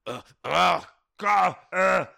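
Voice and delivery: mock nervous requester; imitating a punter. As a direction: fumble it like a flustered fan. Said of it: "they'll come up to you and say".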